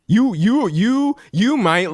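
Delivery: high-pitched, halting splutter; exasperated stammer. Real, not acted. Streamer riled by flaky friends, high exasperated stammer.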